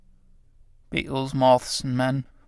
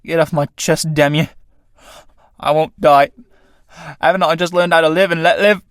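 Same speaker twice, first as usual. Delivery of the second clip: struggling with death; 3 semitones higher than usual. Acted. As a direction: push back against the strangling. Tramp fighting off death.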